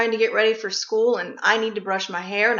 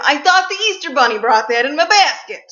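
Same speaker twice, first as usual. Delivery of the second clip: irate and sad; 4 semitones higher, 6 dB louder than usual. Retold or imitated. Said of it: "getting irate and sad at the same time".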